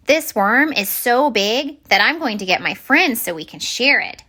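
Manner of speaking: a small fish thrilled to fetch his friends; eager little minnow. Acted. Little minnow telling Alfonso's worm is big, eager small voice.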